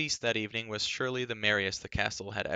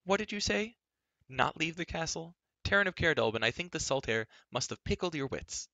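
put-on high, indignant girlish retort; incredulous; 8 semitones higher than usual. A narrator's reading. Girl scoffing at Taryn's order, incredulous. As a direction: start high in disbelief, then scoff.

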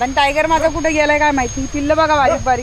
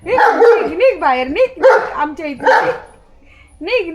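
shooing the dog; 2 semitones higher than usual. Real, not acted. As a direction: chase the dog off with a raised voice. (कुत्र्याला हाकलताना मोठ्याने ओरडणे)

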